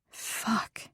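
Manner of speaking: very soft, breathy whisper; aroused gasped curse. A narrator's reading. She reacts to his dirty words, breathy whisper.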